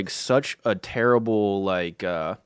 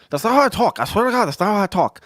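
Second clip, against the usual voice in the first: loud, high mock protest in a buddy's voice; Fonzie impression; 10 semitones higher, 6 dB louder, faster than usual. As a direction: protest as your friend, pitched way up and rushed. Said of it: "he's gonna be like".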